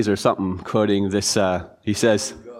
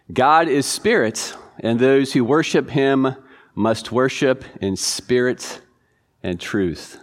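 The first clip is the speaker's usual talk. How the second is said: scripture reading; slower than usual. Acted. Pastor reads first quiz verse aloud.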